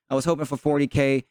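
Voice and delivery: hoarse, strained voice after the game; worn-out voice from cheering; losing voice. Real, not acted. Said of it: "My voice is a little gone right now".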